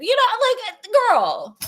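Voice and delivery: loud, high, scolding the character; mock-outraged yelling at a story character; exasperated loud aside. Real, not acted. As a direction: call her out at full volume. Host mocking the character loudly.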